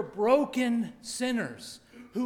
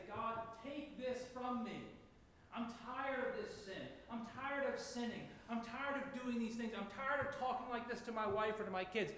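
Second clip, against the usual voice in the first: much softer, pleading prayer to God; hushed prayer; 3 semitones higher, 6 dB quieter than usual. Pretend. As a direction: plead quietly, worn out by sin. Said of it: "we look to heaven and say".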